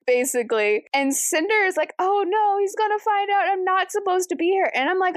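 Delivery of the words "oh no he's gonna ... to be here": high, hammed-up worry; mock panic. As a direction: fake a little panic. Cinder panics behind the pillar.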